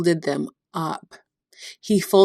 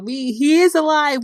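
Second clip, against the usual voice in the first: higher and louder, bursting with the news; excited news; 8 semitones higher, 3 dB louder than usual. Retold or imitated. Disciples rushing to tell the others, excited and higher. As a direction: blurt it out in amazement. Disciples report the risen Jesus.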